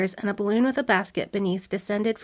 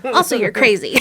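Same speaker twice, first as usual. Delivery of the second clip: laughing; 2 semitones higher, 6 dB louder than usual. Retold or imitated. Laughing at the soldier's line.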